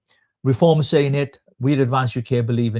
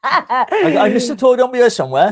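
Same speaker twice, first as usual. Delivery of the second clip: high, loud, laughing through the words; 13 semitones higher, 7 dB louder, much slower than usual. Real, not acted. Joking about mistletoe with her co-host, high laughing squeal.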